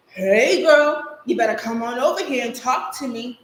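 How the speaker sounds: put-on loud, cocky hollering at a passing girl; brash call out. Tacky old boy calling to a girl, brash and loud. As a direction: shout it across the street like a street-corner boy.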